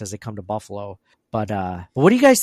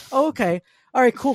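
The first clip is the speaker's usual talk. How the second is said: mock deflated okay; 11 semitones higher, 4 dB louder than usual. Mock hurt reply to rejection.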